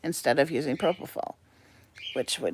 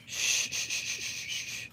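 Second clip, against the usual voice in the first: shushing; 10 dB quieter than usual. Real, not acted. Hushing the noisy bird.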